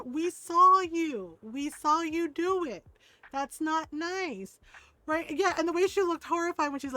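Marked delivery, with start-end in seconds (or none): 0.0-4.6 very slow, emphatic telling-off; drawn-out reproof. Retold or imitated. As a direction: stretch each word for a small child. Retold grandmother reproving child.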